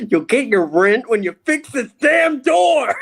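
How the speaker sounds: gruff impatient scolding. Pretend. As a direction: fire back like a fed-up tenant, laughing. Tenant snapping back at landlord.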